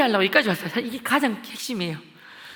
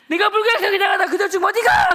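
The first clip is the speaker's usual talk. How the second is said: loud, high threatening questions; bully the kids into answering; menacing interrogation; 11 semitones higher, 8 dB louder than usual. Retold or imitated. Schoolboy grilling classmates about church, loud and threatening.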